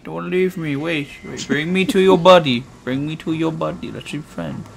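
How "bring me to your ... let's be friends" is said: mock Russian accent, hardened final consonants; Russian-accented monster voice. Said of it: "why am I speaking like a Russian now".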